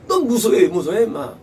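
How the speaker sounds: mock scolding, loud start easing off; acted rebuke. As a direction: act out a brisk telling-off. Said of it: "우선 우리가 들으니까 이게 책망이에요".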